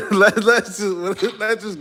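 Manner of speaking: slow, words broken by real laughter; can barely get it out for laughing; laughing through words. Real, not acted. Streamer laughing at a chat joke, words breaking up.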